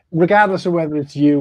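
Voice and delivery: real stunned amazement; amazed disbelief. Real, not acted. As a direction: stammer it out, incredulous, pitch way up. Amazed nobody mentioned it before.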